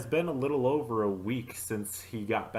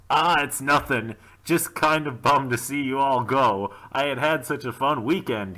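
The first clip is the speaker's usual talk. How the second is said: Mark bummed; 4 semitones higher, 7 dB louder than usual. Acted. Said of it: "he said".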